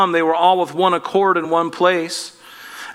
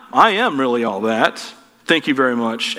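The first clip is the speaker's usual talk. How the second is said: mock arrogance; 4 semitones lower than usual.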